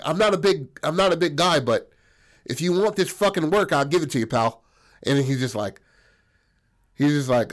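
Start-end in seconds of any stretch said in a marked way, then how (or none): 0.0-4.6 tough guy challenge. Retold or imitated. Buddy squaring up to strongman.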